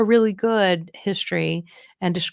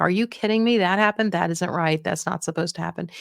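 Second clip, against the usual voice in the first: a touch of outrage on their behalf; validating indignation. Shown as a demonstration. Coach shows how to side with an upset relative, mildly indignant. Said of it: "address them with the same amount of energy in your voice".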